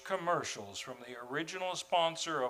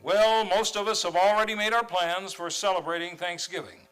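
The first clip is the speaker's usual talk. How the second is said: story narration, a touch louder at first; radio narration; 4 dB louder than usual. A narrator's reading. Narrator introducing Miss Brooks to listeners, storytelling voice. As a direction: set the scene like an old radio narrator.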